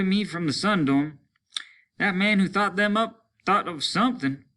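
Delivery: a man cracking from the rain; desperate soldier. Acted. Soldier explains Venus rain to comrades, strained high voice.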